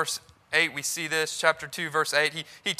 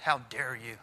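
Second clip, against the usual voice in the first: angry; 7 semitones lower, 11 dB quieter than usual. Retold or imitated. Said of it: "Very mad".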